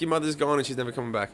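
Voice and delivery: flat, dry, quick deadpan. Retold or imitated. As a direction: say it cold and matter-of-fact. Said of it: "I said it so fucking clean too".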